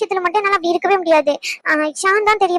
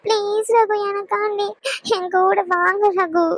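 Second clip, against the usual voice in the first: slow, tearful plea to stay together; tearful pleading; slower than usual. Acted. Wife begging her husband to come with her, slow and tearful. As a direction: beg him to come along, slowly, through tears. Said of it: "இப்ப எதுக்கு அழுகுற".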